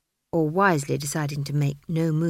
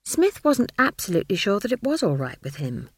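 plain reading voice

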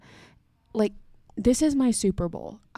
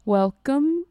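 British accent try; 6 semitones higher, 5 dB louder than usual. Shown as a demonstration. Host testing a British accent for the guests, mock British. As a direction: Welcome in a stilted mock British accent, raised. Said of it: "the word welcome is hard".

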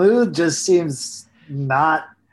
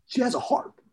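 high-pitched goofy celebrity impersonation; high, swooping impersonation; Andy Samberg; 10 semitones higher, 4 dB quieter than usual. Acted. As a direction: put on a much higher comic voice. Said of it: "I do an Andy Samberg impersonation".

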